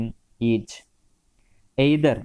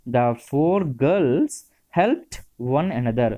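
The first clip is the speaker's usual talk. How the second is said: slow dictation; much slower than usual. Shown as a demonstration. Teacher dictating example sentence.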